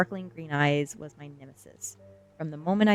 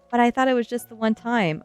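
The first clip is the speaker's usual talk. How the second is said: higher, louder panicked protest; 7 semitones higher, 7 dB louder than usual. A narrator's reading. Child learns school is not just once, panicked. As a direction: plead in alarm, pitched up. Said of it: "I said, panicked".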